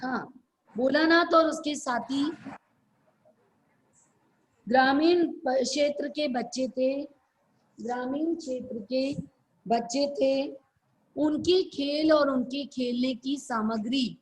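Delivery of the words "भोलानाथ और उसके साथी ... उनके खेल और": phrase by phrase with long pauses; halting, spaced-out dictation; slower dictation. Real, not acted. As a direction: break it up for students writing it down. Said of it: "फिर धीरे धीरे किसको बोलते हैं".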